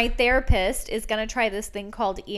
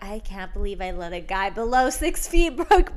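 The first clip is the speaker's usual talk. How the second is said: TikTok quote voice; 2 semitones higher, 7 dB louder than usual. Retold or imitated. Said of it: "I saw this TikTok thing where it's like".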